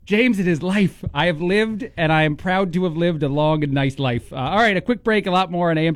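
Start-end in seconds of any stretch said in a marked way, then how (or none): 0.1-4.3 mock grand interviewee. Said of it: "one question you might get early on".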